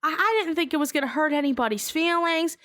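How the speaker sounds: mock his whiny defense while laughing; giggly high rushed excuse.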